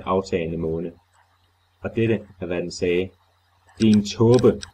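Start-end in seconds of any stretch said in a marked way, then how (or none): 3.8-4.6 hollow, unearthly voice, much louder; inhuman voice. Acted. The thing from the grave answers Carter, hollow and inhuman. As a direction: boom it like something not human. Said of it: "stemmen var dyb, hul, dirrende, fjern, overjordisk, umenneskelig".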